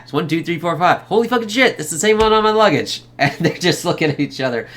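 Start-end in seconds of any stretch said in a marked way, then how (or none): 0.0-1.0 imitated excited announcement; excited retelling. Acting the excited code handover. 1.0-3.0 high-pitched astonished outburst; hammed-up surprised discovery; mock amazement. Acting amazed reaction to the code.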